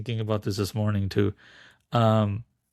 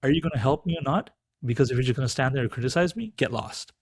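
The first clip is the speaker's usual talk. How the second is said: lightly acted scolding mother bird; 2 semitones higher, faster than usual. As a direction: rattle off a mock telling-off. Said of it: "the mother bird says".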